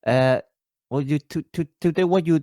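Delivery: playful Singlish accent impression. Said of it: "they will always just go".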